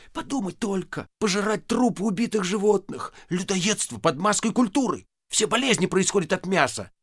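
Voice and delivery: heated husbandly sermon; ardent plea. Acted. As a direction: preach vegetarianism with passion. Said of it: "пылко заговорил".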